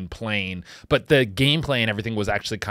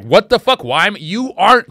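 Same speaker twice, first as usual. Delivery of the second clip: loud, higher mock protest; imitated outraged rant; 7 semitones higher, 8 dB louder than usual. Host imitating the arrested man's rant, mock outrage. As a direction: act out his indignant ranting. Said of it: "he just goes on this rant".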